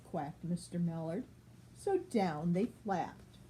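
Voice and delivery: put-on clear, even read-aloud voice for a child; storybook reading. A narrator's reading. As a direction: read it like a bedtime picture book. Reads picture book to child.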